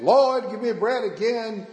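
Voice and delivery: a hint of pulpit calling; preacher calling out. Preacher works up the congregation, lightly acted calling out. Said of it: "was preaching and preaching".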